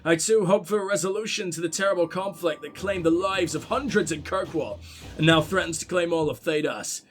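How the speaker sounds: lightly voiced Irish prince reading a letter; light Irish accent. Gamer reads Sebastian's letter to the Inquisition in a light Irish accent. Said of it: "I've got to do a little Irish accent".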